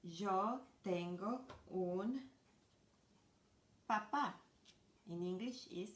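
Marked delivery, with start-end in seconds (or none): 0.0-4.3 slow model sentence. Shown as a demonstration. Teacher modeling dad in Spanish, slow with a stressed end. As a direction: drag it out, then hit papá. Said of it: "how do we say it".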